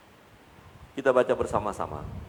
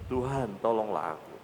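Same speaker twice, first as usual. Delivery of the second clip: soft plea; 3 semitones lower, 7 dB quieter than usual. Acted. Quiet repeated plea.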